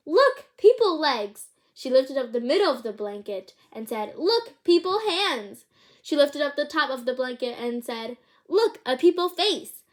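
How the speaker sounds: put-on mother overjoyed finding baby; delighted discovery. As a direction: savour each discovery gladly.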